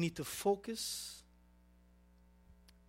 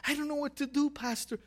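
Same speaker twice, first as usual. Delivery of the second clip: urgent begging to a pastor, re-enacted; pressing, repeated plea, lightly acted; retold anxious plea; 3 semitones higher than usual. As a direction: act out a helpless new believer pleading. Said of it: "And I called my pastor".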